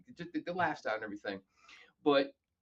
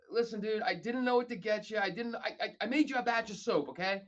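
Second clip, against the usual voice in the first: sheepish explaining; 9 semitones higher than usual. Retold or imitated. Explaining the soap gift.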